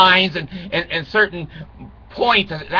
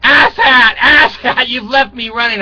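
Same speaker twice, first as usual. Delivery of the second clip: talking car voice; 5 semitones higher, 5 dB louder than usual. Pretend. Car nags owner.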